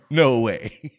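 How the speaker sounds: retold friend cracking up in surprise; loud laughing disbelief. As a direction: burst out with it mid-laugh. Friend repeats it, laughing harder.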